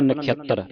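ਨਖਿਅਤਰ pressed hard on "tt"; tight, doubled t. Shown as a demonstration. Teacher drilling students, ਨਖਿਅਤਰ said tight on the t. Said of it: "ਇਹਨੂੰ ਕੱਸ ਕੇ ਬੋਲਣਾ".

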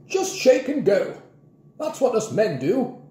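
high, drawn-out exasperated instruction; irritated advice. A narrator's reading. Grandpa irritated with Mrs Trifle, exasperated advice. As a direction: spell it out impatiently.

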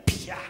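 sudden vocal smack; imitated slap sound. 模仿打耳光的声音. (模仿啪的一记巴掌声)

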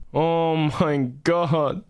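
slow, low, drawn-out groan; stunned disbelief. Real, not acted. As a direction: let it sink in, dragging each word. Streamer stunned, slows down. (langsam und fassungslos)

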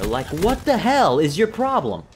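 real fed-up outburst; angry exasperation. Real, not acted. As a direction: have it out with the other player, loudly. Angry at a camping player.

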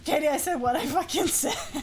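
quick, breaking into laughter; laughing retort. Real, not acted. Streamer standing by a remark to Katie, laughing retort. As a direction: toss it back with a laugh.

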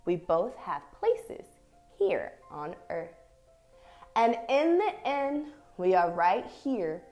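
measured, expressive picture-book reading with long pauses; reading to children. Acted. Teacher reads an affirming picture book to young dancers, expressive story reading. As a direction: read each short phrase deliberately, letting it settle.

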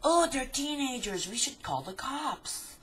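high, loud, swooping old-woman impression; mock outraged old lady. Old lady complaining to her neighbor, mock outrage. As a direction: wail it in hammed-up alarm, stretching the end.

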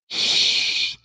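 long unvoiced shush. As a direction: hush the doubters with a drawn-out hiss. Shushing those making excuses.

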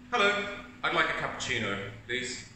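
a grumpy, demanding order; negative customer. Acted. Negative customer ordering a cappuccino at the counter, grumpy. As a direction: order as if nothing here will please you. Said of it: "this is the negative person".

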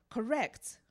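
teacher's delighted high shout; beaming cry. Retold or imitated. Teacher praising a student's pronunciation, beaming loud cry. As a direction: cry it out proudly, like a pleased teacher. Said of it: "he beamed and cried".

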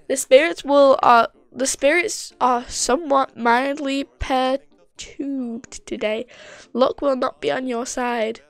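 slow, loud mystic fortune teller. Retold or imitated. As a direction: intone it like a seer. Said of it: "fortune teller".

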